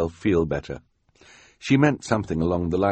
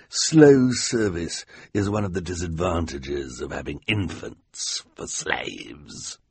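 vain villain voice. Acted. Olaf boasting to his girlfriend.

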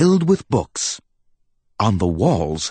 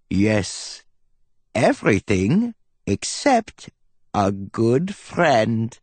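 grinning; 2 semitones higher, slower than usual. Acted. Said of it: "he said with a grin".

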